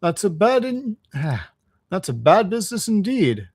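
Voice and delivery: lightly voiced pondering driver; mildly reflective, in character; reflective engine driver. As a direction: consider it with a touch of sympathy. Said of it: "said the engine driver reflectively".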